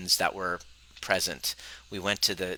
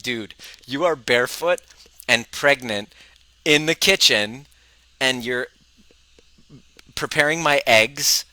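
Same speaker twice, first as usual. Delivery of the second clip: louder, rising incredulous tease; mock disbelief; 3 semitones higher, 4 dB louder than usual. Retelling teasing his wife, amused disbelief.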